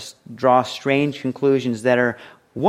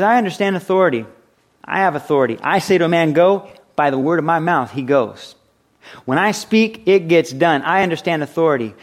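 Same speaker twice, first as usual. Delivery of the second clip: commanding centurion; 4 semitones higher, 4 dB louder than usual. Acted. Voicing centurion declaring his authority.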